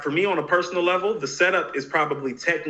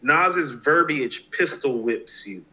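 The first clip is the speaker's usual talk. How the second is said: slow, deliberate reading of the review; slow quoted line; much slower than usual. Retold or imitated. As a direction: quote it very slowly, every word weighed. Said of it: "I remember Chris X saying this".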